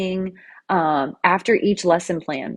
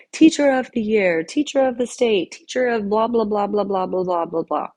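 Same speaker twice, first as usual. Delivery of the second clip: mock grandiose; 3 semitones higher than usual. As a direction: rattle off award titles dismissively, falling away. Mock list of teacher awards.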